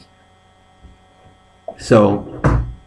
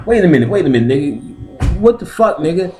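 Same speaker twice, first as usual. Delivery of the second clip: high-pitched mock outrage; hammed-up protest climbing higher; alarmed protest; 8 semitones higher, faster than usual. Patient stopping the doctor, high alarmed protest.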